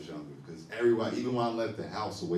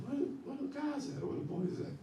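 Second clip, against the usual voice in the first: mock confusion; 4 dB quieter than usual. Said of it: "I was just like".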